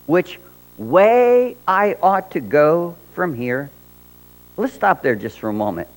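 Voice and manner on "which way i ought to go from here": Alice voice. Acted. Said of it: "Alice asked the cat".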